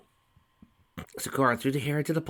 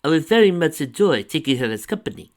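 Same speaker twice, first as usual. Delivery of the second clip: smiling; 7 semitones higher, 11 dB louder than usual. A narrator's reading.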